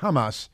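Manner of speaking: "Hamas" with a throaty h and open a's, mocking; mock authentic Hamas. Shown as a demonstration. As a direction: say "Hamas" with a rasped throat sound. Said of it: "that makes it much more authentic".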